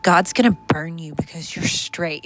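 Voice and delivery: low, hushed mock interrogation; grave, pitying questions as a joke; mock concern. Joking as if someone came out as straight, mock concern. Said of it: "it's like the joke".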